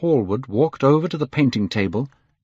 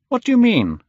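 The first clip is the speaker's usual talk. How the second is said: high, louder question; startled question; 5 dB louder than usual. A narrator's reading. Painter to Dorian about his wish, startled. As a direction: ask in alarm, pitch leaping up.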